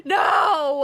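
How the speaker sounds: weepy, choked-up voice; so emotional. Real, not acted. Player overcome by the story, tearful. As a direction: speak through real tears. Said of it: "I'm so emotional".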